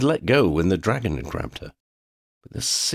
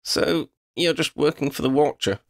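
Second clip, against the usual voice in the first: high, scornful question; scornful girl; 9 semitones higher than usual. A narrator's reading. Girl mocks dragon's master, high scornful voice. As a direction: belittle the dragon. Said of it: "Lydia asked".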